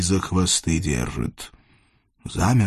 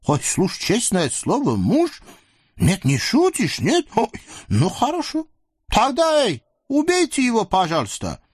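lecherous sultan; 12 semitones higher than usual. Acted. Sultan leers at the captive women, high and gloating. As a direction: purr over the captives like a greedy sultan.

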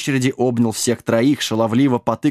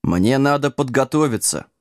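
mildly resolute statement; understated firmness; firm decision. Acted. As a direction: state it as settled. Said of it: "твёрдо решил ведун".

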